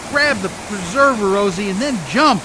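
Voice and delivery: loud commands over the storm; shouted orders to abandon ship; urgent shouted order. Acted. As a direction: yell the order to save her. Boat breaking up in storm.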